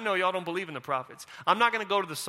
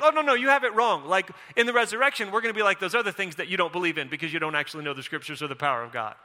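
sarcastic; 3 semitones lower than usual. Retold or imitated. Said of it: "Jesus is being sarcastic".

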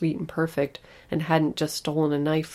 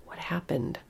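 quiet dread; 6 dB quieter than usual. Acted. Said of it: "fearful thought, sinking dread".

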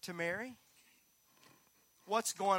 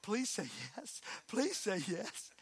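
hushed plea; 8 dB quieter than usual. Retold or imitated. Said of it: "What's she gonna say?".

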